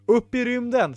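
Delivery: high, excited call; lightly shouted rallying order; shouted command. Acted. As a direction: cry it out to launch the crew. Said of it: "skrek Ibelina".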